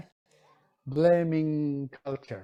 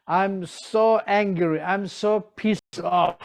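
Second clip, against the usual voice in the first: higher, slow, mock-annoyed whine; mock angry complaint; 4 semitones higher, 4 dB louder, slower than usual. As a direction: play the student pretending to be angry, slowly. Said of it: "Now you can say".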